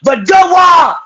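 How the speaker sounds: angry shout at him; yelling. Real, not acted. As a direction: yell it in his face. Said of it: "you can scream all you want to".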